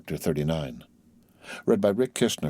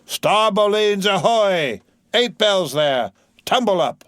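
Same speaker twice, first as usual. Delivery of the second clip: much higher, louder, slow hail; bellowing down the hatch; 12 semitones higher, 7 dB louder, slower than usual. A narrator's reading. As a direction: bawl down the scuttle to wake the watch. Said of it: "thrusts his head down the scuttle".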